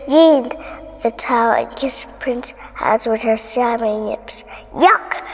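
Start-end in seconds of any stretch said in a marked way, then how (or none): 4.7-5.2 disgusted cry. A narrator's reading. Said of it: "cried the prince".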